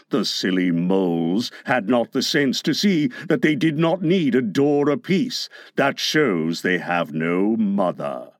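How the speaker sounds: low, relishing villain's voice; lightly voiced pirate schemer; scheming pirate villain. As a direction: lay out the wicked plot in a low voice.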